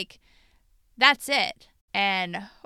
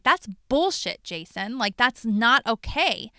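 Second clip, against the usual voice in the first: retold confrontation; slower than usual. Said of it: "reflect that to him".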